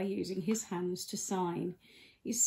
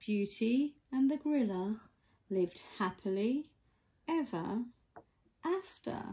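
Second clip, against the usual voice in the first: fairy tale ending. A narrator's reading. Storybook ending.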